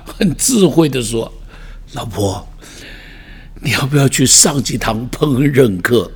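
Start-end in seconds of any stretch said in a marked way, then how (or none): 1.9-6.1 gentle tactful suggestion. Retold or imitated. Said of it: "就轻轻地跟老婆很委婉、 很智慧地说".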